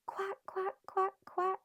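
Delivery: high squeaky quacking duck; duck quacks. A narrator's reading. Duck crying out to the boy, high quacks. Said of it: "cried Ping".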